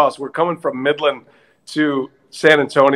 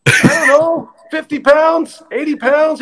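raised driver's reply; 10 semitones higher than usual. Retold or imitated. Driver answers the manager.

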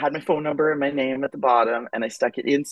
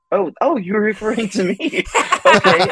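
a higher, laughing realization; 7 semitones higher, 4 dB louder than usual. Retold or imitated. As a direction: staff say he's here, he answers laughing. Laughing reply to staff.

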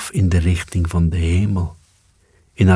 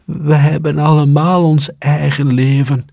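high mouse voices, slightly louder; squeaky mice; 9 semitones higher, 3 dB louder than usual. A narrator's reading. Mice answering the cat, high squeaky retort. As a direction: chime in like indignant little mice. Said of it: "zeiden de muizen".

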